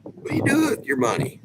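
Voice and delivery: asking his wife in retold disbelief where her money goes; incredulous question. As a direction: ask it in mock disbelief. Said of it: "I asked her one time".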